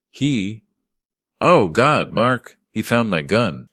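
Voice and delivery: loud, high panic, slowing on the gun; panicked old man. Acted. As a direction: blurt it out in a fake panic. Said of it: "tremor of senility and panic".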